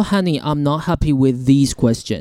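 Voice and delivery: lightly mimicked sugary honey, a bit slow; a hint of a smarmy scammer pleading; scammer's sweet tone. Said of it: "我把语气翻进来就是这样啊". (轻微模仿骗子甜腻的语气)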